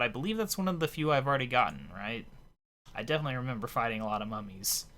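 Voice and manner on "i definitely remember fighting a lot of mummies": slightly hoarse, tired voice; a hoarse throat, talking fast. Real, not acted. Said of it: "Losing my voice here".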